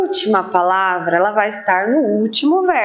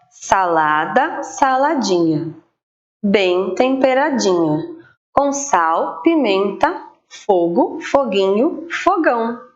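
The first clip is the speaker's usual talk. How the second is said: rhyme reading. Shown as a demonstration. Teacher reading jump-rope rhyme.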